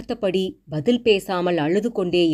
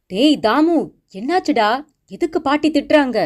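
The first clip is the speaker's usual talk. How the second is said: high, louder worried call to her son; alarmed calling out; 8 semitones higher, 4 dB louder than usual. Acted. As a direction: rush in calling out, anxious and raised. Mother hears scolding, rushes in. (பதற்றத்துடன் உரத்த அழைப்பு)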